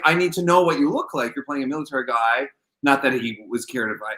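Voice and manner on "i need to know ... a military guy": lightly imitated French director; horrible French accent. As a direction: put on a bad French accent. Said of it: "I'm gonna have a horrible, horrible French".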